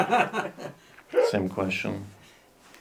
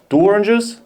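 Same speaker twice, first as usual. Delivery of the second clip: rising, higher questioning hitman; hitman asking; 7 semitones higher, 3 dB louder than usual. Pretend. Hitman confirming his target, louder questioning tone. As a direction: check the order like a hitman. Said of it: "a hitman who was ordered".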